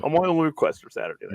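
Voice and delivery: fast, tripping over the words; rushed stumbling delivery; stuttering. Real, not acted. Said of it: "he's so upset he's stuttering".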